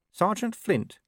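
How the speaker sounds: high, small, doubtful squeak; little voice. A narrator's reading. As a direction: ask it in a tiny high voice. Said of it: "said Nobby in a little voice".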